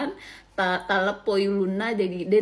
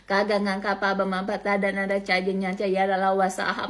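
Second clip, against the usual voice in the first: even, monotone recital of script letters; alphabet recitation; 4 dB louder than usual. Shown as a demonstration. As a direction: rattle off syllables like a schoolroom drill. Recites Bugis Lontara alphabet from school.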